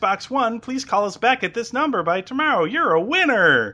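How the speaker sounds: put-on high, excited, girly Valley Girl voice. Detective leaving a fake prize voicemail, Valley Girl. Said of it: "almost Valley Girl level".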